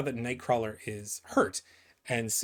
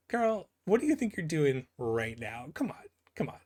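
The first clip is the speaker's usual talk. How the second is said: teasing; 5 semitones higher than usual. Real, not acted. Teasing the character directly.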